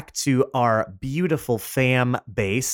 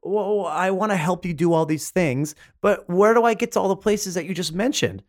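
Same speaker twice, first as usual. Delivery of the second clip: listener voice; 3 semitones higher than usual. Acted. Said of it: "you might be thinking".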